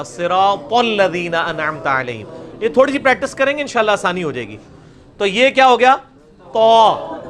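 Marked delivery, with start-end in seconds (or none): 0.0-2.3 slow صراط الذین with heavy t, throaty ain in علیہم; measured recitation, full-mouthed صراط and deep-throat علیہم; correct recitation. Shown as a demonstration. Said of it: "نہیں ہوگا". 6.5-7.2 تو as a thick, rounded taw, held; long full-mouthed تو; heavy emphatic t. Shown as a demonstration. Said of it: "تا کو موٹا کیا".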